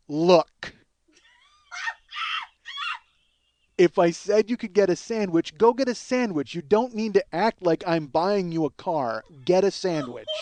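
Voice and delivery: mock irritated scolding; exasperated telling-off; angry. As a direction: snap impatiently after a firm opening word. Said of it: "my getting angry there".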